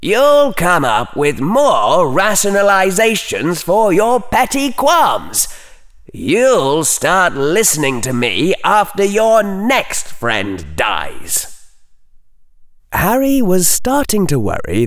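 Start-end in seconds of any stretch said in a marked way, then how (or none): 0.0-11.5 high, slow, icy contempt; withering put-down. A narrator's reading. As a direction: sneer out the prediction. Slytherin continues scolding.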